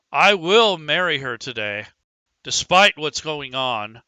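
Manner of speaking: a hint of anger as he declares it; mild stubborn king's resolve; determined, pissed off. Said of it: "determined and pissed off".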